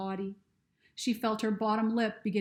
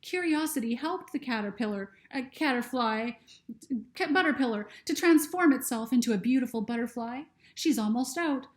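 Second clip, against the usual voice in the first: a lightly voiced young girl, higher, worried; higher girl voice, anxious and unsure; Lucy's voice; 4 semitones higher, 4 dB louder than usual. Lucy speaks in story.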